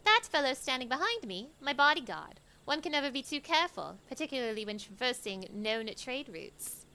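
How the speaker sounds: Sholmes-like Stork voice. Acted. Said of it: "Sholmes in that Stork voice".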